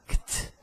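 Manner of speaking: "ct" as a voiceless kt click; just k and t, no vowel on "ct"; CT sans voyelle. Shown as a demonstration. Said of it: "pronunciar esse ct".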